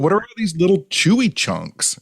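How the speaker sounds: high, puzzled voice pulled up in alarm; puzzled disgust. Retold or imitated. Co-host retelling finding bacon in her shake, high puzzled disgust. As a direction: relive finding chunks in the shake. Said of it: "But I was like".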